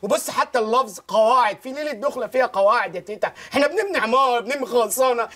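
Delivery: high-pitched, exasperated outpouring; worked-up, pleading rant to grandmother; breathless protesting rant. Acted. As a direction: plead and protest without letting up. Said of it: "يا واد خد نفسك".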